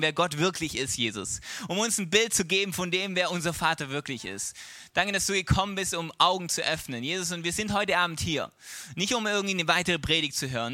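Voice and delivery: earnest, flowing spoken prayer. Real, not acted. Preacher praying to Jesus for the congregation, earnest prayer. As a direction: thank Jesus in an unbroken, heartfelt plea.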